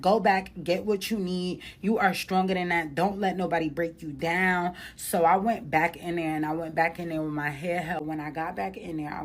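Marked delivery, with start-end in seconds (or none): 0.0-4.7 self pep talk. Retold or imitated. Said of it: "I was like".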